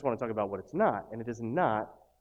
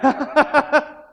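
high, loud hammed-up giggle; fake cheery laugh; 13 semitones higher, 10 dB louder than usual. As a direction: cap the parody with a forced laugh. Mock cheerful laugh after lemonade.

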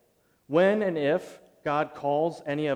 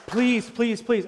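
louder, higher pleading please; begging; 8 semitones higher, 5 dB louder, much slower than usual. Retold or imitated. Preacher reenacting begging at the neighbor's door, pleading. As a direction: beg him desperately.

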